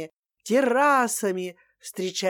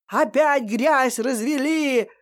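ор; 3 semitones higher than usual. Acted. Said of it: "орала Светлана Ильинична".

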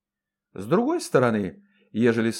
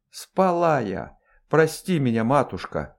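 meekly obliging; 2 semitones higher than usual. Acted. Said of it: "покладисто отозвалась карлица".

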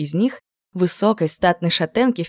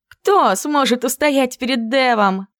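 drawn-out; 7 semitones higher, slower than usual. Acted. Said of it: "протянула Кловер".

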